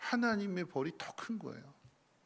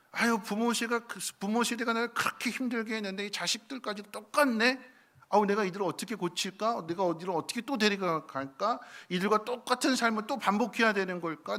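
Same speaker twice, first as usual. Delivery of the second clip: exasperated sigh; 6 semitones higher, 5 dB louder than usual. Acted. Moses' frustrated inner lament.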